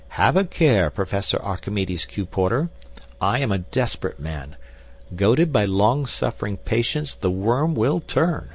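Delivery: mildly cold, indignant warning; a touch of wounded dignity; icy tones. Acted. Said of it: "in icy tones".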